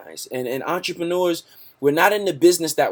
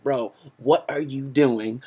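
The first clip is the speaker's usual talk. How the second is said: amazed question to friend; slower than usual. Retold or imitated. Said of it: "and I've been like".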